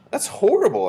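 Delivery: high, loud protest; crying out. A narrator's reading. Narrator boy objects to ants being burned, crying out. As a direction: cry out in objection. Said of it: "I cried".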